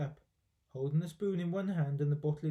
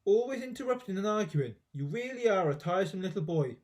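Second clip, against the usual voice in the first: scolding grandma; 4 semitones higher than usual. Acted.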